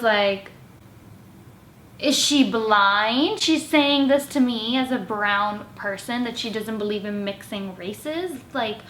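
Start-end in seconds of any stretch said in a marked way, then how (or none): 2.0-8.8 slow, louder disbelief; disgusted. Retold or imitated. Vlogger reacting to roommate's racist remark, disgusted. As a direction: let the disgust spill out. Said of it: "I was just disgusted".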